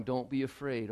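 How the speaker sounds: gentle reassurance. Acted. God speaking softly to someone here today who is afraid. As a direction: say it softly to one hurting person. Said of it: "Maybe God wants to say to somebody".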